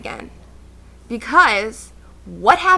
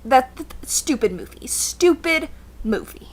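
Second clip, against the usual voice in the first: disgusted. Real, not acted. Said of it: "disgust at movie".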